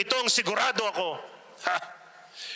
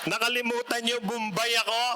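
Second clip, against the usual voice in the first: laughing; 4 semitones higher than usual. Real, not acted. Laughs at own joke.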